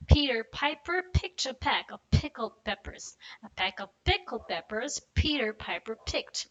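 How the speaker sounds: slow and careful, every P clear; slow tongue twister. Shown as a demonstration. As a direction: go slow, sound by sound. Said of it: "go slow".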